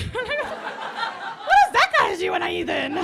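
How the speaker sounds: high, loud, drawn-out comic protest; indignant outburst. Acted. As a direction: cry out in exaggerated indignation. Mock outrage at the insult.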